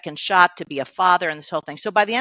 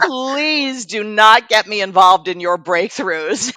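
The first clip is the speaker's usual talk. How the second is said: loud, drawn-out, higher mock plea; exasperated pleading; 5 semitones higher, 5 dB louder, slower than usual. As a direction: beg wearily, imitating a fed-up husband. Retold husband pleading to stay out.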